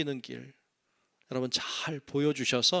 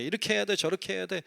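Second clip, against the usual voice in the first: higher, preachy know-it-all tone; lecturing elder; 6 semitones higher than usual. Retold or imitated. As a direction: mimic an elder lecturing the young. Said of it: "그게 자꾸 가르치려고 해". (가르치려 드는 어른 흉내)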